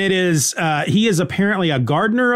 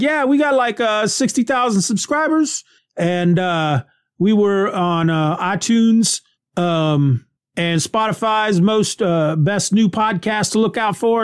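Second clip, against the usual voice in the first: lightly voiced higher eager bragger; bragging tow guy; 5 semitones higher than usual. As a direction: boast happily like a proud amateur. Guy brags about subscriber numbers.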